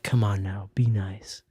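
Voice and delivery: imitated close, coaxing whisper; whisper in ear. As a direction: whisper it low into someone's ear. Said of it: "she whispers in my ear".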